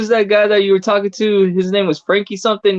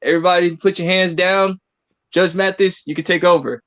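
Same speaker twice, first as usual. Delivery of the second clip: mock court announcer.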